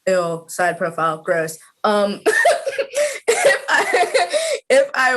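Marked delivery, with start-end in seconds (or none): 2.2-5.2 words breaking up with laughter; giggling. Real, not acted. Guest embarrassed at showing a side profile, giggling. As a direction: try to start, lose it to giggles.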